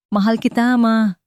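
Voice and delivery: son's loving cry to his mother, read aloud; emotional outburst. Acted. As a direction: let the love burst out on the last words. Letter's tearful closing line read.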